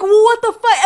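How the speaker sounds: high-pitched exasperated disbelief; retold disbelief. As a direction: act out your baffled reaction. Retells her reaction to the ending.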